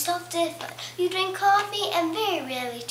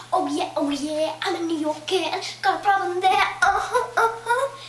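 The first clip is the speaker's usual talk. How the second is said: New York rapper; 2 semitones higher than usual. Pretend. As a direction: rap it like a tough New Yorker. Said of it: "here's a rapper from New York".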